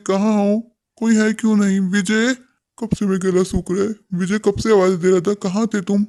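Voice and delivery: put-on a lonely old father calling for his family. (ऊँची आवाज़ में शिकायती बूढ़े पिता)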